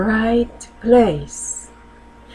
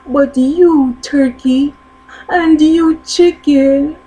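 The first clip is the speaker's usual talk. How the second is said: high, louder parrot voice climbing; 9 semitones higher, 5 dB louder than usual. Acted. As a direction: ask it like an incredulous parrot. Parrot questions freezer birds.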